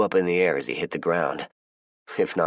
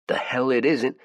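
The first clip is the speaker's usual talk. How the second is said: defiant; 9 semitones higher than usual. Acted. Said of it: "one of them ... piped up".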